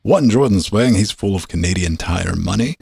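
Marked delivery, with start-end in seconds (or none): 0.0-0.9 upbeat announcer read of the show opening; show intro. Acted. Host welcomes listeners to the weekly show, upbeat announcer.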